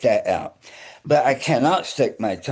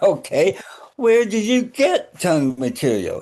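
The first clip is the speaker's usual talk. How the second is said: higher, incredulous questioning; retold puzzled question; 6 semitones higher than usual. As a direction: ask the doctor in mock puzzlement, pitched up. Retelling his puzzled question to doctor.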